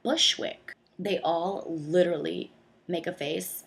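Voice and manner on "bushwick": high Bushwick. Shown as a demonstration. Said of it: "every time I say Bushwick".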